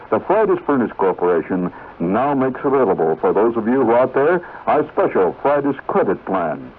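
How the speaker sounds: smooth pitchman selling credit; friendly ad-man patter; radio ad read. Acted. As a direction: sell it like an old radio announcer.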